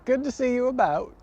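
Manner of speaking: mock a British farewell, badly; bad English accent. Teasing English friends goodbye in a clumsy English accent. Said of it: "I gotta work on my English accent".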